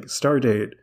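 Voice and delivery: slow, halting log entry with a faltering filler; tired, forgetful. Retold or imitated. Host imitates Kirk dictating his captain's log, tired and forgetful. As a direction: grope for the last digits, mildly weary. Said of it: "he's just so tired he can't remember".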